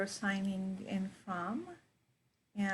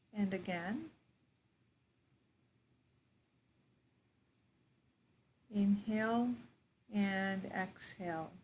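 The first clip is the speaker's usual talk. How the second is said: guided meditation. Real, not acted. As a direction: guide them into their breath, unhurried.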